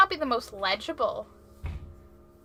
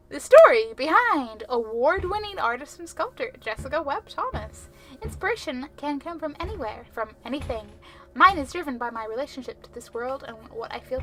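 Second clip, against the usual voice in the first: measured, polished read-aloud; story narration. Acted. Reading an artist's profile aloud, polished narration. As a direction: read it out like a magazine feature.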